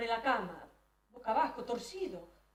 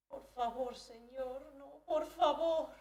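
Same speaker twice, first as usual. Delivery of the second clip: frightened plea; 3 semitones higher, much slower than usual. Retold or imitated. She pleads with him.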